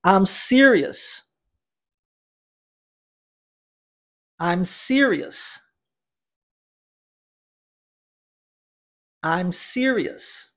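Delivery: "I'm serious" said very slowly with a falling end; slow model phrase. Shown as a demonstration. Teacher modelling a phrase for students to repeat, slow. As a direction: model it slowly, word by word, for repetition. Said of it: "Vamos repeti-la?".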